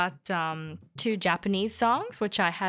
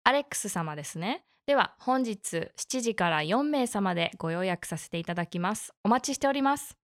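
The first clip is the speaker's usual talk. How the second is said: customer service voice. Acted. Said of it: "I love your beautiful N H K Japanese".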